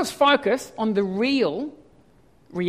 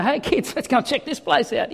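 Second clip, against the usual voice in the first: put-on higher-pitched call to the kids; mock cheery parent; 3 semitones higher than usual. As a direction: pretend to rally the kids for an outing. Mock invitation to kids on drive.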